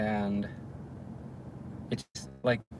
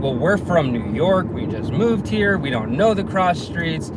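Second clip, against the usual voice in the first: mildly pissy retort, higher and slower; 4 semitones higher than usual. Retold or imitated. Customer who can't give cross streets, mildly pissy. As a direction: imitate an irritated customer, stretching it out. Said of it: "she is just getting pissy".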